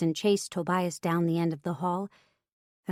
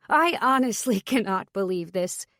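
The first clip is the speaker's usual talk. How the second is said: bitter laugh through the words; mirthless laugh; 2 semitones higher than usual. Acted. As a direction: laugh without any joy. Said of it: "He laughed mirthlessly".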